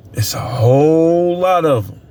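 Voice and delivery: hushed, confiding whisper on "lot"; whispered aside. Real, not acted. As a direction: drop to a whisper to share a secret. Confiding aside about workers.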